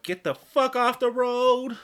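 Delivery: high, loud, drawn-out mock road-rage yell; held-back scream. Driver retelling road rage at a slow car, near-scream. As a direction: yell it slowly, stretched out, stopping short of screaming. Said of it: "I almost wanted to scream right there".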